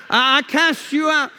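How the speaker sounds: high, loud mock rebuke with laughter; playfully overdone casting-out; mock exorcist shout. Mock rebuke of the storm, after laughing.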